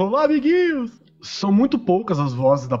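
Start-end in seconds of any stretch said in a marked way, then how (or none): 0.0-0.9 high cheerful host greeting; kids' show host voice. Retold or imitated. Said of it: "Aqui no Toca Toca".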